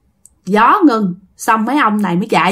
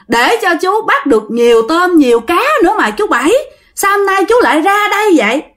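higher-pitched, mild ghostly questioning; gentled ghost; 6 semitones higher than usual. Acted. Ghost questioning uncle Bảy she respects, high and gentler. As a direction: ask an elder respectfully, pitch raised. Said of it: "tự nhiên cổ hiền".

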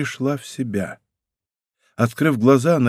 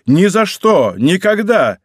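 louder, higher, refusing outright; outcry; 6 semitones higher, 5 dB louder, slower than usual. Acted. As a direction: cry out in protest. King refuses her sacrifice.

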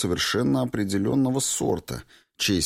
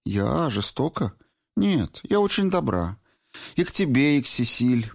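put-on higher young woman's voice, lightly teasing reproach; 8 semitones higher than usual. A narrator's reading. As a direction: Valentina scolding her old friend Clifford, higher and reproachful. Valentina answers.

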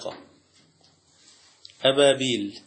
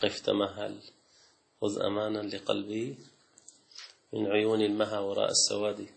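softly recited verse; poem recitation; 2 semitones lower, 5 dB quieter than usual. Shown as a demonstration. Teacher reciting Ahmad Shawqi's verse to students, soft and measured. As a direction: quote the Shawqi line gently, savouring it. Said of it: "أحمد شوقي".

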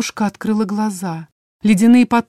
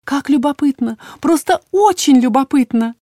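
high, louder lilting wonder; cheerful singsong; 6 semitones higher, 4 dB louder than usual. A narrator's reading. Healer goes on repeating her wonder, merry lilt. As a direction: gush on, endlessly fascinated. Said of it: "весёлым голосом пела Тамплина".

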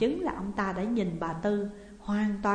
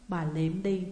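usual speaking voice

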